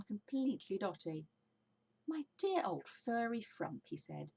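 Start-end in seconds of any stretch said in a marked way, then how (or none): 2.1-3.9 slow, affectionate teasing; fond teasing. Acted. Mister Fox to Badger, fondly teasing and slow. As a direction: savor the nickname.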